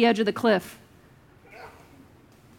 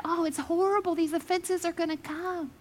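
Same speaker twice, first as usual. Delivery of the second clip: mock lament; 4 semitones higher, 7 dB quieter than usual. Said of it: "like, cry, sad".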